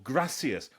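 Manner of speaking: "gracias" with a short flat a and s sounds; pronunciation demo. Shown as a demonstration. Showing tourists a third "gracias", short-a pronunciation with s. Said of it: "whichever way around it is".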